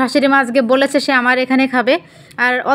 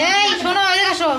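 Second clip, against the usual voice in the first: high call to someone far away; yelling across the room; 6 semitones higher than usual. Real, not acted. Calling family from the kitchen.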